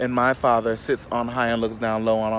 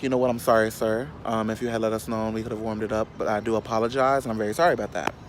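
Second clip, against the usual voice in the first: softer, sugary apologetic service voice; polite customer service; 3 semitones lower, 4 dB quieter than usual. Retold or imitated. Apologising to the rude pizza customer, softer polite service voice. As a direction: kill him with kindness, softly. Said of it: "I heard my mama's voice".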